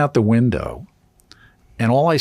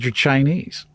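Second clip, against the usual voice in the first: higher-pitched retold line on the edge of laughing; retold hysterical laughter; 4 semitones higher, 4 dB quieter, slower than usual. Patient answers the swab technician, retold on the edge of laughter. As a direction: say it as if about to crack up. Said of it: "I start laughing hysterically".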